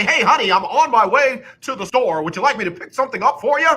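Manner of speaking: mock a sportscaster calling his wife; lightly hammed announcer tone; fake announcer voice. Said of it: "You don't call your wife and say".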